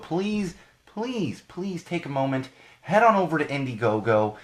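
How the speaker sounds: pleading. Acted. Begging listeners to donate.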